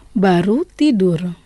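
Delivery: lent, chaque mot bien posé; lent et articulé. Shown as a demonstration. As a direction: dicter lentement pour que l'élève répète. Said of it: "je vais prononcer lentement". (prof qui dicte aux élèves, lentement)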